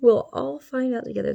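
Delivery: put-on spooky voice, playfully sinister; mock ominous voice. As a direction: say it like a campy horror-movie narrator. Repeats the line in a spooky voice.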